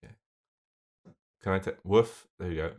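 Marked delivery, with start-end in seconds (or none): 1.8-2.3 woof. Pretend. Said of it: "I want you to woof".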